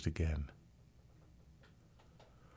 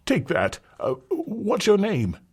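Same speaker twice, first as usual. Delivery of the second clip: louder, higher condescending gent; patronizing father; 6 dB louder, slower than usual. Acted. Rich father tips the rescuer, louder patronizing gent. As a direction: talk down kindly to a servant.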